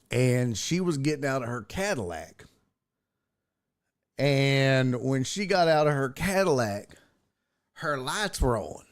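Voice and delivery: lightly imitated unhurried storyteller; a hint of a drawling old-timer; slow-talking country guy. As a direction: take your time, pausing between phrases. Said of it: "this is how he talked".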